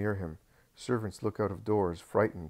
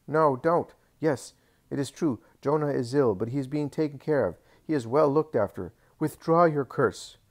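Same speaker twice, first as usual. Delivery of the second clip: much higher and louder, begging; panicked pleading; 6 semitones higher, 7 dB louder than usual. A narrator's reading. Doris panics at the curse.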